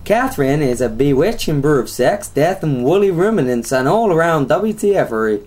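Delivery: lightly put-on Texan accent; hillbilly accent. Host redoing co-host's reading, mock hillbilly accent. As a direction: read it like a mock Southern US hillbilly. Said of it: "let's do a South American accent".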